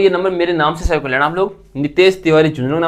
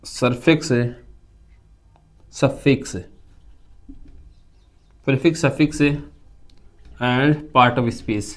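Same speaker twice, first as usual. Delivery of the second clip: stretched out word by word; slow dictation; 3 semitones lower, 5 dB quieter, much slower than usual. Shown as a demonstration. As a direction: dictate slowly for note-taking. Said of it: "लिख लो इसको".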